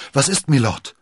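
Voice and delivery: mildly alarmed question; a touch of unease, voice lifted; worried. A narrator's reading. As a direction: ask with quick concern. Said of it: "fragte D'Artagnan beunruhigt".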